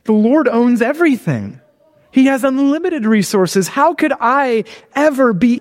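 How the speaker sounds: dawning reflection. Shown as a demonstration. Preacher reflecting on God as shepherd, dawning reflection. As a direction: let the verse's meaning build into awe. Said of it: "is to reflect".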